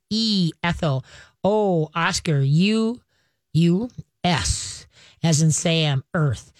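each letter said slowly with its word, D as in dog; spelling it out. Shown as a demonstration. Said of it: "this is how you spell it".

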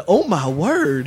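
slow, pearl-clutching mock shock; mock gasp. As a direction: act scandalized, drawing it out. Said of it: "I just have to clutch my pearls".

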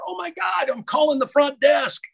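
imitating scared guys yelling; panicked shout. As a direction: shout for the front desk in fright. Guys shouting at masked intruder.

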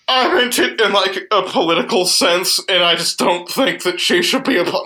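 high, timid hedging; nervous backpedaling. Retold or imitated. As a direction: backpedal meekly, acting it out. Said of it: "I just backpedaled real fucking hard".

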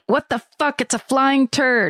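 half-hearted builder's shout; mild mock shout. Builder splattered from the scaffolding, mild mock shout. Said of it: "very scouse builders shout".

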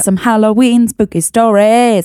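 playfully exaggerated British accent; put-on British accent. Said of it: "I'm putting on an accent".

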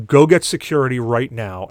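mild retold shout for help; retold yell. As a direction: call it over to someone, moderately loud. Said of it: "So I yell over to".

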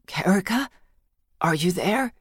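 soft, dazed murmur; half-conscious, calling her name quietly. A narrator's reading. Wounded brother calls his sister, dazed murmur. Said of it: "Bellick murmured, as in a daze".

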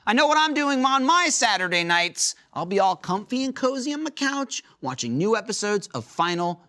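upbeat sponsor read; announcer voice. Acted.

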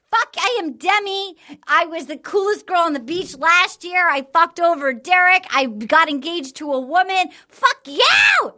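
hammed-up angry rant, rising to a yell; imitating Demi's indignant tirade; mock ranting. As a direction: rant like an offended reality star. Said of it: "she's like".

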